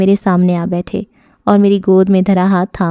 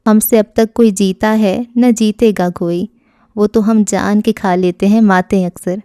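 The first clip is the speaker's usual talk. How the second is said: reciting a couplet. A narrator's reading. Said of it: "یہ شعر سنا دیا".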